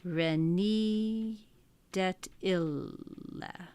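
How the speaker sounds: slow, split syllables, fading; slow scanned reading of Latin verse; metrical reading. Shown as a demonstration. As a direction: read the start of the line in its meter. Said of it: "just to finish off the beginning".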